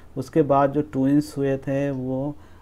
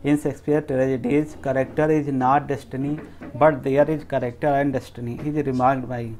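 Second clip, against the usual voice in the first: each option read out slowly and evenly; slow quiz reading; 3 dB louder, much slower than usual. Shown as a demonstration. Teacher reading the answer options to students, slow dictation. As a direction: dictate the answer choices at half speed.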